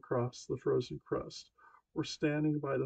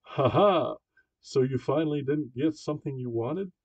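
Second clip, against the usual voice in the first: lightly voiced gloating sister, louder; mocking big sister; 7 dB louder than usual. A narrator's reading. Big sister gloating at her brother, lightly voiced mockery. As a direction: taunt him with a mock laugh. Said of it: "his big sister laughs says".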